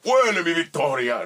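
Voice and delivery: agudo y fuerte, villano triunfante; voz de villano Agamemnon. Retold or imitated. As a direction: presume la victoria como villano. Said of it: "¿Con quién no batallé? Con Agamemnon". (villano de caricatura, agudo y fuerte)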